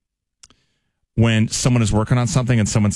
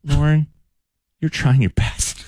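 condescending; 4 semitones higher, slower than usual. Shown as a demonstration. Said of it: "This apparently is a phrase that's condescending".

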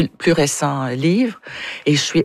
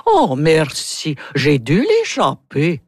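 Russian accent; slower than usual. Shown as a demonstration. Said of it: "Natalia va dire".

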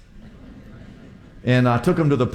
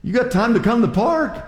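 teasing rebuke; 7 semitones higher than usual. Retold or imitated. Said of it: "I said".

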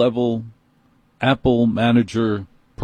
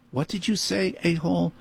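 mock angry retort; 7 semitones higher, 7 dB quieter than usual. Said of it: "I didn't say that".

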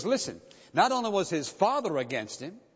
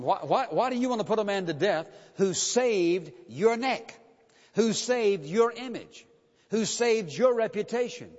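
pleading challenge; 4 semitones higher than usual. Acted. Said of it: "And he challenges him".

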